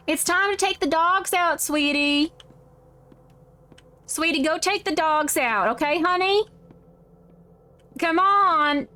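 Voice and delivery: Southern mom sending sweetie on a chore; lightly put-on Southern drawl. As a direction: coax them in a mild Southern accent. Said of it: "In your southern voice, can you say".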